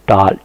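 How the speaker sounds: "टाल" with unrounded open aa; open, unrounded vowel in "टाल". Shown as a demonstration. Teacher showing what is not said, open aa pronunciation. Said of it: "टाल नहीं बोलते".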